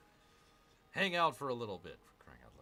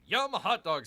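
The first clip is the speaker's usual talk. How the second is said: reading Amy's chat; 7 semitones higher, 10 dB louder than usual. Retold or imitated. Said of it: "says Amy".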